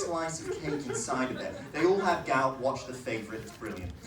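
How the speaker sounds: posh English, dropping away at the end; offhand posh English asides; posh English accent. Shown as a demonstration. Comic explaining posh people's gout, in a posh English accent. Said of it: "a posh English accent".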